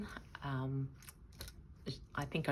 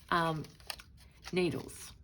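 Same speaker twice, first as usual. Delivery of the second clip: usual speaking voice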